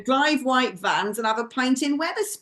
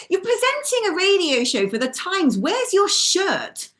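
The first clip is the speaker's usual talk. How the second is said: exasperated telling-off, pitched up; mock scolding; 3 semitones higher than usual. Commentator telling off a sloppily dressed radio presenter, mock scolding. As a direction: scold him like a scruffy schoolboy.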